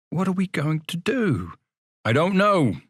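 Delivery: high, anxious question; lost and unsure, high-pitched; worried boy. Acted. Two frightened boys outside the workhouse, anxious.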